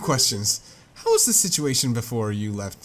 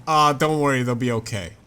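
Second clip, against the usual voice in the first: dismissive brush-off; 4 dB louder than usual. Retold or imitated. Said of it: "It's like, if I say this".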